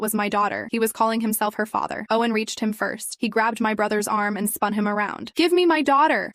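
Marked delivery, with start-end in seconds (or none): 5.3-6.3 loud, high furious demand; angry shout. Acted. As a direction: yell it at the kidnapper. Father demands stolen baby back.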